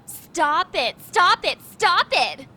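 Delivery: mocking echo. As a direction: throw her words back at her, jeering. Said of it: "Is that all you know how to say?".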